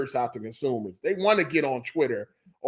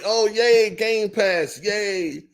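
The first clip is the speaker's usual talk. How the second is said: mock-excited, higher "yay" for fans; sarcastic cheer; 5 semitones higher, much slower than usual. Mimicking gamers who cheer for Game Pass, mock delight. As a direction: sell the fake joy, then let it drop.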